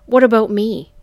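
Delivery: hurt cry. A narrator's reading. Jealous Johnny demanding an answer, crying out. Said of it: "he cried".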